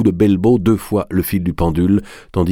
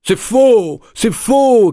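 much higher and louder, repeated protest; shouting; 4 dB louder, much slower than usual. A narrator's reading. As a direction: cry it out in outrage. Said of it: "criait Aglier".

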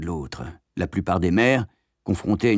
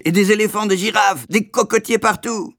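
much higher, louder shout of delight; excited cry; 12 semitones higher, 5 dB louder than usual. A narrator's reading. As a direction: cry out like a thrilled boy. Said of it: "m'écriai-je". (cri enthousiaste)

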